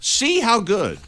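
slow, drawn-out commercial slogan. Retold or imitated. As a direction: read it like a TV ad tagline. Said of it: "That's their slogan".

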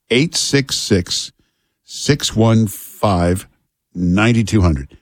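each digit spaced out slowly; slow phone number. Shown as a demonstration. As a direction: read the number slowly for callers. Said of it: "phone number read slowly".

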